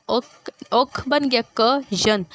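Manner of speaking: "ओक" and "कजन" set apart, slowly; divided syllables. Shown as a demonstration. Teacher dividing a word into parts, "ओक", "क", "जन" slowly separated. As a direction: sound out "ओक ... क-जन" in separate pieces. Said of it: "parts divide हो रहे हैं".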